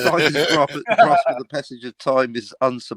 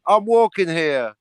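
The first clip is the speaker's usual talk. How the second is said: put-on New York accent; 5 semitones higher than usual. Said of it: "That's his Brooklyn accent".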